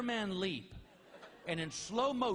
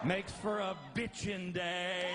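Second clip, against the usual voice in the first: slow stoner drawl; slower than usual. Retold or imitated. Stoned boast after laugh.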